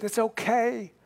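husband comforting his crying wife, tenderly; gently soothing. Retold or imitated. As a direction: reassure a weeping wife softly. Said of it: "And he said".

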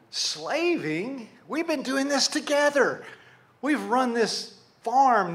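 offended disbelief. Acted. Dad objecting to his son's word, offended disbelief. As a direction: protest it as an affronted father. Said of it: "how does that make you feel if you're the dad".

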